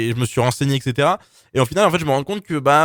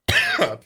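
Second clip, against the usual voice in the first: short dry cough clearing the throat; a real dry cough mid-sentence; 3 semitones lower than usual. Real, not acted. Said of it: "punaise, excusez-moi".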